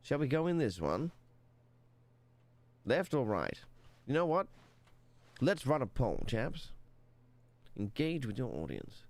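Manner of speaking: put-on posh British narrator accent, lightly done. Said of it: "If I talk like he does".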